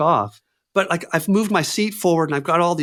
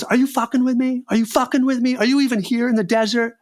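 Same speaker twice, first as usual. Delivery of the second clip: incredulous anger; 10 semitones higher than usual. Retold or imitated. Director accusing on phone.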